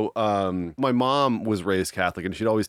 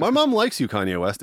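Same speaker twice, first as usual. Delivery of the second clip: excited call-out; 4 semitones higher than usual. Acted. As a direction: announce it gleefully, pitch jumping up. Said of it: "address to a rapper".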